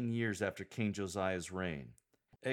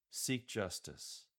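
"Seek justice" slow, with a falling lilt; downward lilt; 4 dB quieter, slower than usual. Shown as a demonstration. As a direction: let "Seek justice" drop gently at the end. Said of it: "with a downward lilt".

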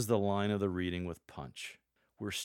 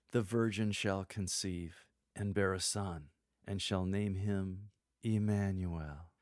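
slow, intimate, gently softer; soft and tender. Shown as a demonstration. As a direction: tell it tenderly, close to the mic. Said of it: "The second is soft, intimate, and tender".

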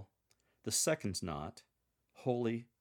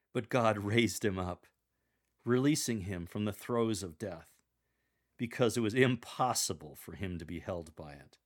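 joyful. Shown as a demonstration. Lector demonstrating the resurrection news, joyful. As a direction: raise the voice with joy. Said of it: "exude joy for this segment".

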